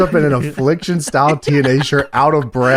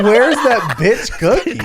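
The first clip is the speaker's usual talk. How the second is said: laughing; 4 semitones higher, slower than usual. Retold or imitated. Retold demand, slowed.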